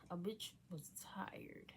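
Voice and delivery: slow unvoiced whisper; slow breathy whisper. Real, not acted. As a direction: whisper it like a confession. Whispered self-comment.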